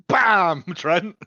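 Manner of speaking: excited cheer. Real, not acted. Cheering a line in the show.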